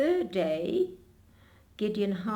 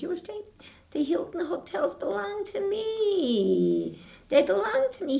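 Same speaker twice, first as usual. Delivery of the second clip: boastful rich man; 12 semitones higher than usual. Retold or imitated. Wealthy man insisting she stay.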